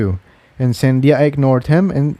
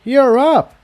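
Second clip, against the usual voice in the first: bright, much higher burst of eager greeting; excited; 13 semitones higher than usual. Acted. Young mare greeting her friend excitedly. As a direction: pop it out like she's been waiting all morning. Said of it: "she said excitedly".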